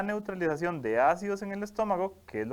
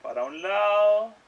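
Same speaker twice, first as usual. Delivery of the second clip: slow and gentle; 3 semitones higher, 5 dB louder, slower than usual. Shown as a demonstration.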